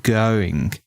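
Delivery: "going" with the vowel stretched like a rubber band; Australian stretched going. Shown as a demonstration. Showing friends the Australian "going" with a stretched vowel. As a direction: pull the o in "going" long and bouncy, Aussie style. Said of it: "has that kind of rubber band stretch".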